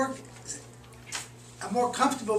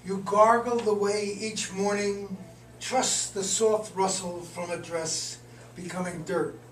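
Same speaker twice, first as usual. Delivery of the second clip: measured, deliberate poetry recital; poem reading. Acted. Poet reads a poem just finished today, measured recital. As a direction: read it line by line, pausing between phrases.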